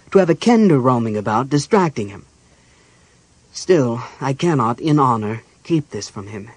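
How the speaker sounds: lightly voiced mage, loud and emphatic; troubled archmage. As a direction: list the mounting troubles forcefully. Raistlin lists the army's troubles.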